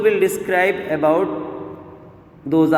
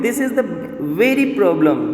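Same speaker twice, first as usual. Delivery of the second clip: raised pitch, pressing firmly on "very"; emphasis on very. Shown as a demonstration. Teacher explaining the same problem, "very" emphasized. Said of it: "it's a forcefully said".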